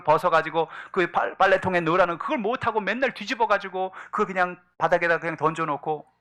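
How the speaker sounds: exasperated with oneself. Acted. Husband chiding himself over inside-out socks, exasperated.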